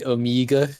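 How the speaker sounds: mock Kiwi pronunciation, "Omeega"; New Zealand accent. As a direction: say Omega as a New Zealander would. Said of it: "have a New Zealand accent".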